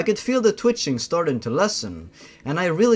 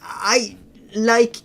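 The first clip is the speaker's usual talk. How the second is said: put-on girl voice; 5 semitones higher than usual. Girl answers, higher.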